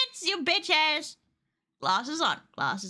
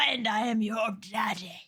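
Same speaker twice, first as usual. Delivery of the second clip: deep laughing voice; 5 semitones lower, 4 dB quieter than usual. Pretend. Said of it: "a voice warper".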